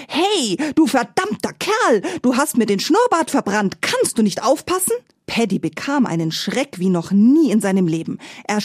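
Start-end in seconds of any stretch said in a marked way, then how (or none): 0.1-4.9 high, shrill-pitched furious boar voice, much higher; screaming roast boar. A narrator's reading. Roast boar yelling at Paddy about its singed moustache, high angry shriek. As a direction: shriek it like an outraged talking roast pig. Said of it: "sprang vom Spieß und schrie".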